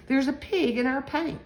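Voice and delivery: high storybook squeal. A narrator's reading. Missus Hayden finds a pig in the paint, squealing. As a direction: squeal it in mock dismay. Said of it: "Missus Hayden squealed".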